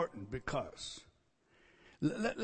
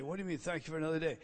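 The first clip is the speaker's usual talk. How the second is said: correcting himself; 5 dB quieter, much faster than usual. Retold or imitated. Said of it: "So I stop and rephrase it".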